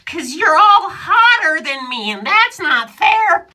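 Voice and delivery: whiny high. Acted. Whiny jealous confession voice.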